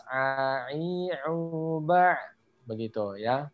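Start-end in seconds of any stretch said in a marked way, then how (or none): 0.1-2.2 A, I, U, ba sounded one by one; huruf jelas. Shown as a demonstration. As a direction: give each of A, I, U, ba a distinct sound. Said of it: "Hurufnya harus jelas". (A, I, U, ba diucapkan jelas satu per satu)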